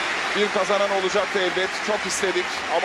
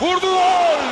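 goal shout; 6 semitones higher, 5 dB louder than usual. Real, not acted. Goal scored in shootout.

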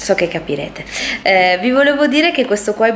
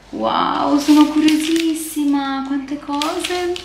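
excited; 7 semitones higher, slower than usual. Real, not acted. Unboxing reaction.

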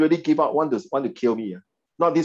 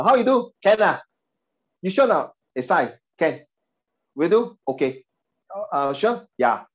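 put-on Singaporean accent; 3 semitones higher than usual. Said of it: "Usually Singapore".

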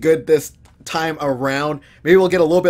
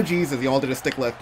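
ordinary talk, nothing marked

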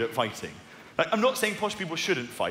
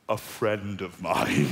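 slow, deliberate, lower emphasis; knowing cover-up; 6 semitones lower, much slower than usual. Pretend. Comic telling his agreed cover story, slowly and pointedly. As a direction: spell out the alibi for the crowd.

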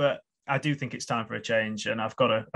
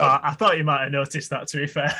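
mouth full; 4 dB louder than usual. Real, not acted. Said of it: "rude to talk with your mouth full".

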